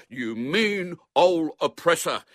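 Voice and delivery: high, slow, drawn-out accusation; boy's taunt. A narrator's reading. Boy to the man he locked in, taunting. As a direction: accuse him slowly in a high voice.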